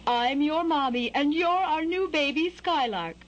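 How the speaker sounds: high, sing-song mommy bird; high mother-bird voice, falling at the end. A narrator's reading. Mother bird figure in story.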